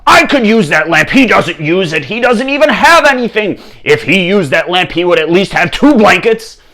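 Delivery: loud, high, ranting fury; enraged king. Acted. King denied the lamp by a monk, raging. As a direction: rant at full volume, outraged. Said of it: "the king flew into a rage".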